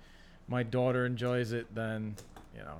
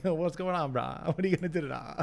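silly dude voice; 4 semitones higher than usual. Retold or imitated. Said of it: "Jim and I used to talk like that".

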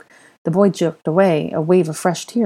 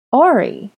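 put-on high, louder toddler answer; small child; 8 semitones higher, 5 dB louder than usual. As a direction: answer like a little boy. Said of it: "the boy answered again".

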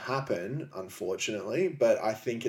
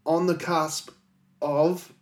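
mock excitement; 7 semitones higher, 6 dB louder than usual. Excited alien disclosure announcement.

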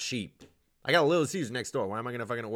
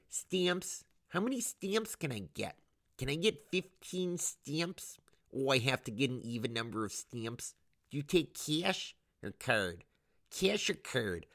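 put-on high, slow Detroit clerk accent; Metro Detroit accent; 4 semitones higher, slower than usual. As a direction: mimic a Michigan postal clerk. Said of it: "how Midwestern people in Metro Detroit sound".

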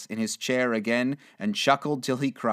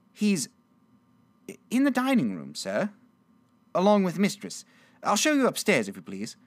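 high, polite maid's voice; high-pitched servant, softening at the end; servant girl; 7 semitones higher than usual. Acted. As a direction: stammer slightly as a deferential girl. Servant girl answers Scrooge.

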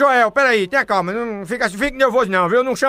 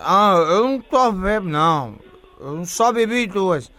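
put-on drunk voice; 3 semitones lower than usual. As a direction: insist you're not drunk, slurring. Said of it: "eu não falo com bêbado".

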